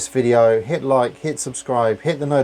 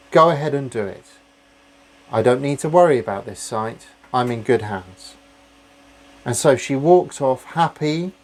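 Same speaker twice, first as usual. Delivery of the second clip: put-on lilting storyteller voice, reading to children; bedtime story narration. Vlogger reading a bedtime story to his viewers, lilting storytelling. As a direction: tell it like a bedtime story for kids.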